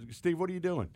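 hammed-up caught-you general; stern general. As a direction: call them out in mock surprise. General catches them, retold.

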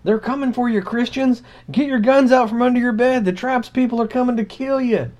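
over-the-top news scare voice; mock Fox News alarm. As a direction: play a frantic fearmongering pundit.

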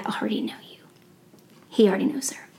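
hushed whisper, like sharing a secret. Acted. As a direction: drop to a breathy secret. Jesus's secret knowledge revealed.

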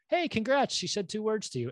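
imitated throwaway line. Girl sidles up to him after his rejection, imitated throwaway congrats. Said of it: "her throwaway line".

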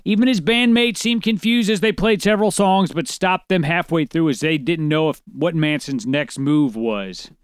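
lightly projected article reading; news article read-aloud. Acted.

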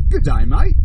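put-on light, playful Australian accent; a hint of Australian, for show. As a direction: toss in a touch of Aussie. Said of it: "How was my Australian accent?".

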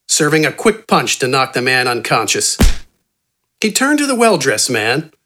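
ordinary delivery

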